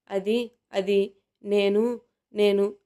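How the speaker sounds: very slow, faltering "it, it, I"; flustered girl searching for words; startled stammer. Acted. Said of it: "ఉలిక్కిపడి".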